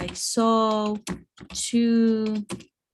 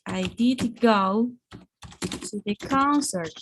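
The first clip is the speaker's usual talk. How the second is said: slow, deliberate DID before "go"; emphatic DID; slower than usual. Shown as a demonstration. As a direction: spell out "did go" with weight on "did". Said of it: "this is for emphasizing".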